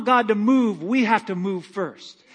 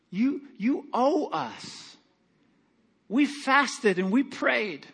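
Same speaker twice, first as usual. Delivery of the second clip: slow, higher, drawn-out complaint to God; imitating an aggrieved plea; 4 semitones higher, much slower than usual. Pastor retelling the church's angry prayer after the boy died, slow and aggrieved. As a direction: dwell on the grievance. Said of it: "And we were all just like".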